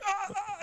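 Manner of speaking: high-pitched mock cries of struggle; mock struggling cries. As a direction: imitate someone battling to get free. Retold struggle to get away.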